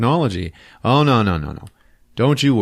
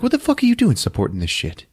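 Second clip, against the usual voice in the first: much higher, indignant squawk; outraged Nakia; 13 semitones higher, faster than usual. Retold or imitated. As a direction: play her as an outraged woman, pitched way up. Nakia confronting Wakabi.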